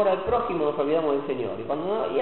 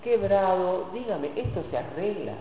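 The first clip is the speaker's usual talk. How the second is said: humble plea; 5 dB quieter than usual. Retold or imitated. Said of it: "y decirle".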